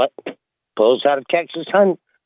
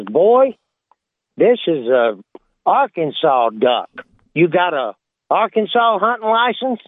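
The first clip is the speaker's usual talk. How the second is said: stern game warden; 3 semitones higher than usual. Retold or imitated. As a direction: play the suspicious Southern lawman. Warden accuses again.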